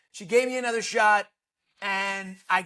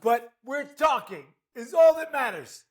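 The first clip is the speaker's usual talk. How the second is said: mock exasperated; 3 semitones higher than usual. Real, not acted. Mock exasperated outburst at host.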